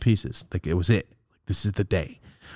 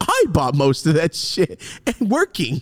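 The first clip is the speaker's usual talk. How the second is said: emphatic retort; 5 semitones higher than usual. Retold or imitated. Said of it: "As I told her".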